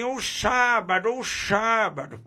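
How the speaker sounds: lightly voiced boy saying o sábado; imitating the boy. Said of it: "que disse assim". (imitando de leve o menino)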